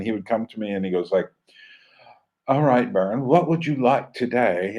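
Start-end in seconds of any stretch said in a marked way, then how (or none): 2.5-4.8 put-on light English accent for the record distributor; a hint of an English accent, breezy salesman. Record distributor greets the buyer in a light English accent. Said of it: "he had some kind of English accent".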